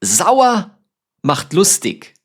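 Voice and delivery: bright high lift on Sauer; sing-song proverb. Shown as a demonstration. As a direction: announce the saying playfully. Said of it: "in Deutschland sagen wir".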